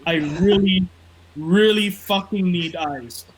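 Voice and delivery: slow, drawn-out mock Rollins craving eyes; lightly voiced Rollins, slow and pleading; mock scripture as Rollins. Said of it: "Rollins three sixteen says".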